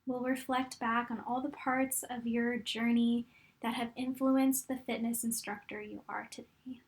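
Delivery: calm, unhurried meditation guide with long pauses; guided meditation. Real, not acted. Coach guiding fitness instructors to look back on their journey, calm meditation voice. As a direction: guide them gently through it, leaving room to breathe.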